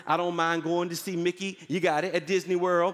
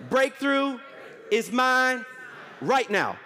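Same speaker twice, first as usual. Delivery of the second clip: shouted declaration; 3 semitones higher, slower than usual. Shown as a demonstration.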